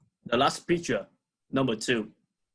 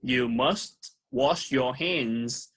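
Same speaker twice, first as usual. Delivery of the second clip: slow model reading; slower than usual. Shown as a demonstration. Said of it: "And the next sentence is".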